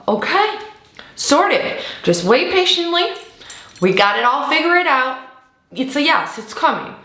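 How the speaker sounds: calm them down, it's all handled; reassuring spirit. Pretend.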